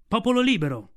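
high, loud cry to the whole pack; shouted. Acted. Mowgli rallying the wolf pack, shouting loud and high. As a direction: call out to rally the gathered wolves. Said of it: "gridò".

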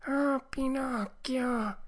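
high, very slow wail; whining fox. A narrator's reading. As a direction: draw out a pleading whine. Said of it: "con voce di piagnisteo". (volpe piagnucolosa, voce alta e strascicata)

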